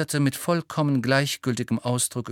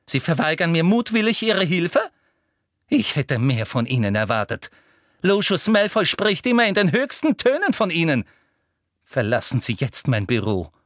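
louder, shrill dismissal; Umbridge fury; 6 semitones higher, 5 dB louder than usual. A narrator's reading. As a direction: throw him out in a rage. Umbridge furious. (schrill wütend hinausgeworfen)

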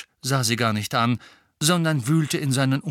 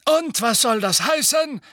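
icy; 14 semitones higher, 5 dB louder than usual. Acted. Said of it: "fragte Fudge eisig".

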